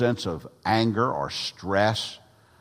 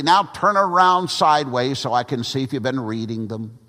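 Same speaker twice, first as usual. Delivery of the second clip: put-on a lightly raised, hearty old evangelist greeting the congregation; Grant Rice's preaching voice; 4 semitones higher, 4 dB louder than usual. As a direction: open a little higher and louder, like a folksy old preacher starting the service. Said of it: "this was the way that he preached".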